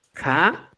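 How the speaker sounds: K as kha, with a puff of air; aspirated k. Shown as a demonstration. Teacher repeating the series, aspirated K. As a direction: breathe out hard after the K. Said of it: "el aspirado es K".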